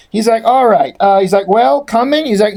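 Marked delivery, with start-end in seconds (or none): 0.4-1.0 put-on London accent. London Troll voiced in accent. 1.5-2.3 put-on London accent. London Troll voiced in accent.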